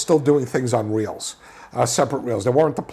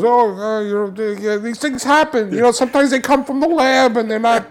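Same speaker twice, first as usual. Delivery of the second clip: lightly voiced, higher casual old projectionist; easygoing projectionist; 7 semitones higher than usual. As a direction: shrug it off like a veteran who has seen it all. Projectionist brushing off the damage.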